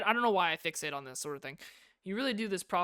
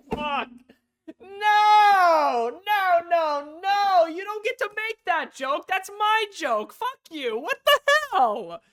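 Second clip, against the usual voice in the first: much higher, very loud indignant screaming; outraged yell; 12 semitones higher, 13 dB louder, much slower than usual. Real, not acted. Streamer screaming at Yuri for stealing his joke, furious yell. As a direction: scream protest that the joke was stolen.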